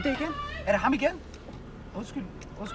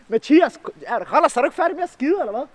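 calling out; 5 semitones higher, 9 dB louder than usual. Real, not acted. Calling out to cameraman.

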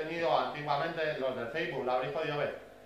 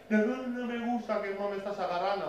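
higher-pitched mock bird protest; complaining bird; 5 semitones higher than usual. Voicing a jilguero that dislikes being grabbed, complaining. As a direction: pipe up as a bird objecting. Voices a bird that cannot talk.

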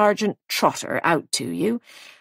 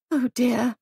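sigh; 5 semitones higher than usual. Acted. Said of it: "sighed Molly".

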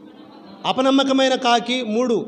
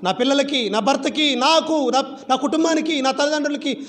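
higher-pitched list of pleas; imitated pleading prayer; 4 semitones higher than usual. Wife and mother praying for her family's food, acted pleading. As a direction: act out a believer appealing to the Lord. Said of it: "ప్రభా అని ప్రార్థన చేస్తాం".

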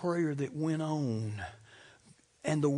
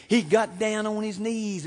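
raised, high pulpit voice; emphatic preaching; 5 semitones higher, 5 dB louder than usual. Real, not acted. Preacher describing Gethsemane to congregation, emphatic and raised. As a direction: drive the words out to the congregation. Preached climax, then repeated softly.

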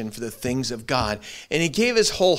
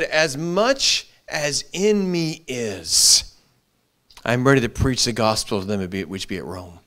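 scripture quote; 4 semitones lower, slower than usual. Retold or imitated. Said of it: "As Paul said".

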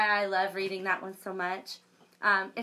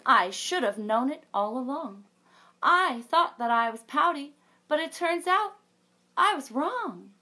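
lightly voiced fish; 6 semitones higher, 7 dB louder than usual. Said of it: "says Mister Fish".

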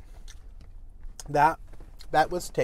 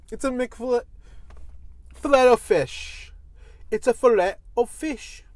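excited; 6 semitones higher, 3 dB louder than usual. Real, not acted. Excited food announcement.

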